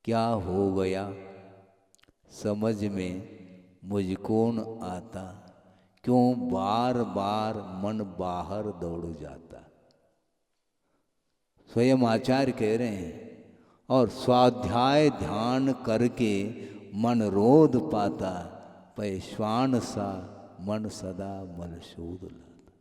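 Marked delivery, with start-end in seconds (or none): 0.0-9.7 verse recitation. Acted. Recites a couplet from the Acharya's book. 14.1-22.7 slow, measured verse reading; verse recitation. Acted. Monk quoting his Acharya's verse to listeners, slow measured recitation.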